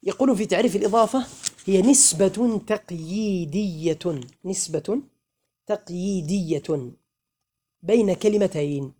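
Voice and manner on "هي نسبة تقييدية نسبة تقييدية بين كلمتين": very slow, syllable by syllable, with pauses; slow dictation. Shown as a demonstration. Teacher dictating a definition to students, slow and measured. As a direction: stretch out each word for writing down.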